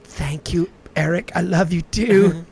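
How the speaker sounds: tender, drawn-out reply to a loved one; sweet. Pretend. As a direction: say it slowly and sweetly. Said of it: "That one's sweet".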